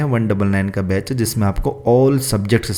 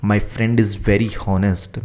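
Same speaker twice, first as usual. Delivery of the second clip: slow dictation; much slower than usual. Shown as a demonstration. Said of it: "तो इसका answer लिखो".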